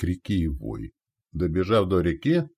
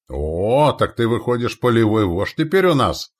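raised, high, impressed; respectful exclamation; 4 semitones higher, 5 dB louder than usual. Acted. Commander hearing ally's promotion, respectful exclamation. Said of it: "воскликнул уважительно Онни".

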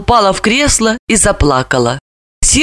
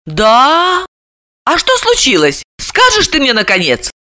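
stunned; 6 semitones higher than usual. A narrator's reading. Вера ошеломлена.

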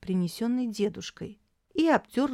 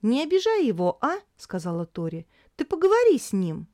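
high, louder plea; girl pleading for grandfather; 5 semitones higher, 4 dB louder than usual. A narrator's reading. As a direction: beg her sister. Tori pleading with sister.

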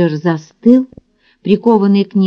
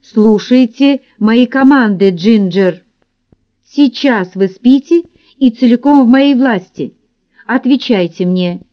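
firm, distinct, raised commands; firm commanding voice; 3 semitones higher than usual. Acted. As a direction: order her like a stern hypnotist. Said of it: "заговорил твёрдо и отчётливо, повысив голос".

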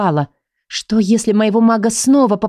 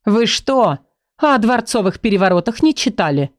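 mocking; 2 semitones higher than usual. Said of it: "насмешливо поинтересовалась она".

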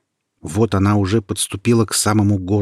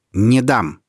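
louder; 3 semitones higher, 5 dB louder than usual. Acted. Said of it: "ещё громче сказал Петр".

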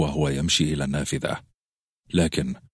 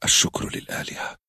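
hushed gratitude; whispering. A narrator's reading. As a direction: whisper a relieved prayer. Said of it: "هكذا همست".

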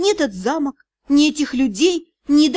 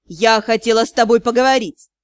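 silky; 4 semitones lower than usual. Acted. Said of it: "Вкрадчивый голос леди Тьер".

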